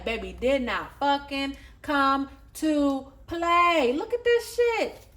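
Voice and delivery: a touch of proud, gushing ancestors. Retold or imitated. Ancestors cheering their baby on, mock proud and gushing. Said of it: "They like".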